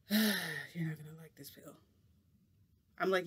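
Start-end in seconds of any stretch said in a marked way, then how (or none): 0.1-1.8 slow, breathy whisper of a warning. Retold or imitated. Friend whispers a grim warning about the pill, slow whisper. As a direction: hush it, slow and ominous.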